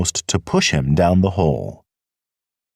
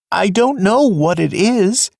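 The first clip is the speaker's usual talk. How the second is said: high, wretched, fearful voice; despairing young rabbit, pitched up high; 13 semitones higher than usual. Acted. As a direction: miserable and scared, voice pitched high. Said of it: "answered Fiver wretchedly".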